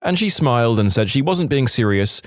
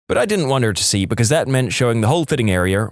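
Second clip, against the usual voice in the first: usual speaking voice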